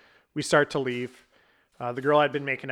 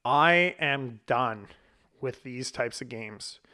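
slow, deliberate refusal; retold ultimatum; slower than usual. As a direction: space the words out to lay down the line.

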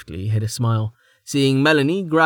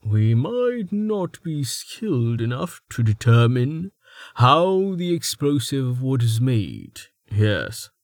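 calm; slower than usual. Acted. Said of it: "said Myth calmly".

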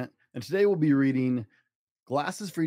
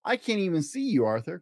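mock cry; 4 semitones higher than usual. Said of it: "cried D W".

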